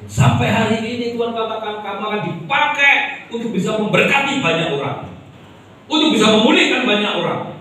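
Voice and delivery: impassioned pulpit proclamation; full-force preaching. Acted. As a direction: preach it with rising fervour to the congregation.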